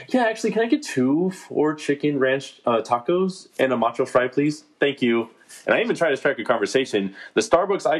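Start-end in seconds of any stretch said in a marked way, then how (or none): 0.1-5.3 polite, slow, higher service voice; sweet-talking the drive-thru girl; customer service voice. Retold or imitated. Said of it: "I'll be like this".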